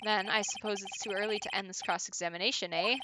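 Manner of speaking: lightly hammed-up Canadian judge; stereotypical Canadian accent. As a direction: put on a cartoonish Canadian accent. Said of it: "doing that really stereotypical Canadian accent".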